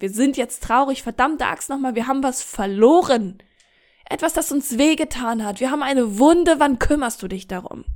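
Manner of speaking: mildly acted angry outburst; wütendes Anbrüllen. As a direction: demand attention with punched words, not a full yell. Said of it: "dass sie dich anbrüllt und sagt". (leicht gespieltes wütendes Schimpfen)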